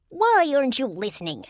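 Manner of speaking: high, loud demanding whine; demanding fairy. A narrator's reading. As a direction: demand it like an angry sprite. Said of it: "the fairy demanded".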